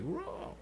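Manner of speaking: high-pitched soft roar; high Wookiee roar. Retold or imitated. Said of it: "and it's like".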